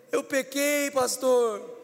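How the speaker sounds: high, loud mock-tearful confession; exaggerated weeping plea; imitated crying. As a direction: wail it to the pastor. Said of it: "Ele começou a chorar e falou".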